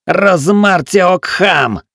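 long, high, loud drawn-out oath; raging curse. A narrator's reading. Gunner keeps raging at the door, drawn-out curse. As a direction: rant it out. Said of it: "продолжал разоряться стрелок".

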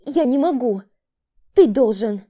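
desperate woman. A narrator's reading. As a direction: refuse in panic. Woman refuses, distressed. (отчаянный крик)

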